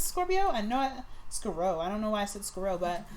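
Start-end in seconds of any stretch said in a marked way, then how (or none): 0.0-0.5 high stretched Scorpio. Shown as a demonstration. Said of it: "Give me a chance".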